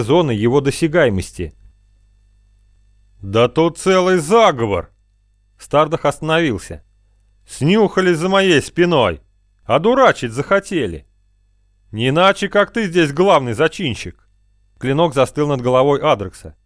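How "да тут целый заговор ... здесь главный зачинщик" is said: angry. Acted. Villain raging at conspirators.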